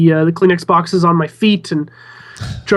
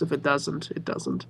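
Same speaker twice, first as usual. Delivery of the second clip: whispering; 3 semitones lower, 13 dB quieter than usual. Real, not acted. Shrugging off a bad show.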